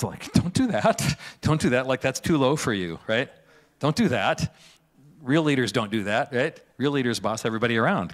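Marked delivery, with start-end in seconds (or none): 0.3-4.5 alarmed protest. Retold or imitated. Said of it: "the disciples are losing their minds".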